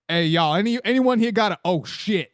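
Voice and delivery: a light put-on black guy voice. Friend walking into the tent, lightly voiced black guy. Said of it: "let me do my black guy voice".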